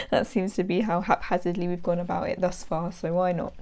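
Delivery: blocked nose from hay fever; nasal voice. Real, not acted. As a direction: talk through a stuffy nose. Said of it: "excuse the nasally voice".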